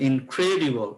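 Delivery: "ইনক্রেডিবল" with weight on the second syllable; stressed key word. Shown as a demonstration. Teacher offers students another answer, stress on "ইনক্রেডিবল". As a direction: lean on the CRE of "ইনক্রেডিবল". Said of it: "একটু stress দিব".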